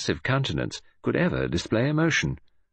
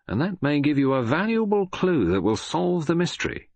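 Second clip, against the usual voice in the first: higher, jovial inspector voice; Japp voice; 8 semitones higher than usual. Acted. Japp inviting Poirot to the mortuary, jovial higher inspector voice. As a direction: bluff Scotland Yard man, teasing.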